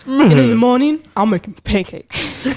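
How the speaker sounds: excitable film donkey, starting loud. Acted. Showing friends an impression of Donkey, loud and playful. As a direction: burst in as the chatty sidekick. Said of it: "I can do Donkey".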